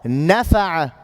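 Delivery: NAfa'a, opening NA emphasised; stress on first syllable. Shown as a demonstration. Teacher gives an example to copy, NAfa'a stressed up front. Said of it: "pronouncing it like this".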